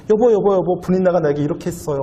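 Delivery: tattling wife. Retold or imitated. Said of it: "이렇게 고자질하면서".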